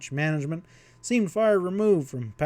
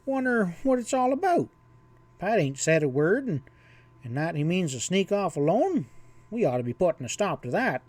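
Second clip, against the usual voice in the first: put-on higher, worried old rancher; lightly voiced fretful old cowboy; old cowhand voice; 4 semitones higher than usual.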